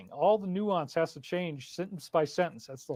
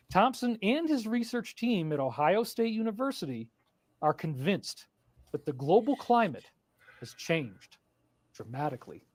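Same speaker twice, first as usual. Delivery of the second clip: hushed nature documentary. Shown as a demonstration. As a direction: drop into a hushed documentary hush. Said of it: "You like that narration?".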